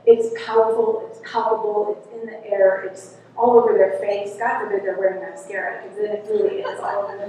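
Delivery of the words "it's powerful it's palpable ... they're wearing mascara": usual speaking voice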